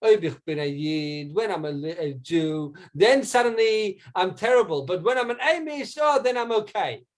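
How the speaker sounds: sarcastic retort. Retold or imitated. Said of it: "he says back in Yiddish".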